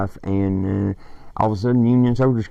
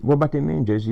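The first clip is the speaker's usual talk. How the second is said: lightly voiced young companion, corrected quote; 6 semitones higher, faster than usual. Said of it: "Or he said".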